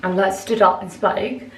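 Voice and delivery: slightly out of breath. Real, not acted. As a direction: talk while catching your breath. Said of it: "I don't know why I'm so out of breath".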